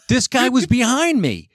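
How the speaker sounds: high, laughing protest. Real, not acted. Retelling the fight to friends, laughing. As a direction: push the words through a laugh.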